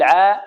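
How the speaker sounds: "عا" with a thin, open "aa"; light ع. Shown as a demonstration. Teacher shows how to thin the ع, light "عا". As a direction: keep the ع in "عا" free of heaviness. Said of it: "نرقق العين".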